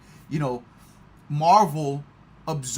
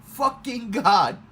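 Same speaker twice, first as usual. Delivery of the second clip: a louder, higher "oh" then a slow "my God"; amazed reaction; 4 semitones higher, 5 dB louder, much slower than usual. Retold or imitated. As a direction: stretch it out in awe. Retells own reaction to the cameo.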